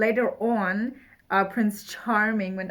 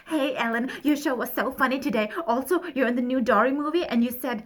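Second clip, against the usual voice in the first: higher-pitched mock fangirl letter; cringey teen diarist; 4 semitones higher than usual. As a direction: read it as an embarrassingly gushing teenager. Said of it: "so cringe, 'cause she would be like".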